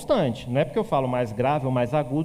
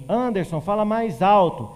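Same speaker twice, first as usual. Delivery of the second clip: mock crew telling the anchor to speak up; studio crew calling; 4 semitones higher, 4 dB louder than usual. Studio staff telling the news anchor to speak up, calling out. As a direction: call across the studio, a bit louder. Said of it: "O pessoal do estúdio falar assim".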